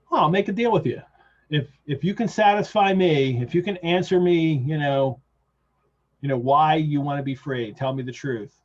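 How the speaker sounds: a loud, lightly voiced Van Helsing bargaining; Van Helsing's offer. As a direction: read it out big, like a bold bargain. Van Helsing's offer read aloud.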